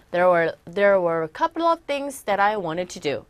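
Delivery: "There were a couple of things that I wanted to do" slow, with "wanted" as "waned"; native-like reduced reading. Shown as a demonstration. Teacher models the whole line for learners. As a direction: read it the way natives sound, T softened. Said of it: "이렇게 들리시는 거예요".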